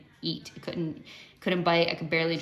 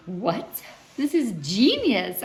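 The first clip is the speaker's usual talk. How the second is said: excited; 4 semitones higher, 5 dB louder, slower than usual. Retold or imitated. Retelling her delight at salad.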